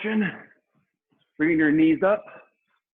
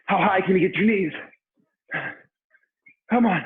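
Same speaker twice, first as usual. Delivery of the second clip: aerobics instructor shouting; 4 semitones higher than usual. Real, not acted. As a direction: yell them through the last round. Final round push.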